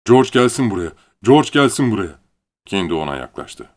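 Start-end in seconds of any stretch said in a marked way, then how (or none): 0.1-2.2 loud, high call for George; Lenny shouting for George to come. Acted. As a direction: yell it across the bunkhouse. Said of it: "Lenny bağırdı".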